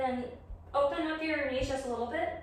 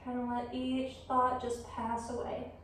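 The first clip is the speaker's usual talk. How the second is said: yoga guidance; 6 dB quieter than usual. Real, not acted. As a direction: guide them gently through the pose, leaving room to breathe. Leads yoga practice.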